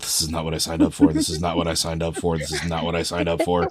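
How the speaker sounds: muttered under the breath, repeated; muttering. Acted. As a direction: grumble it quietly to yourself. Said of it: "I'm just muttering to myself".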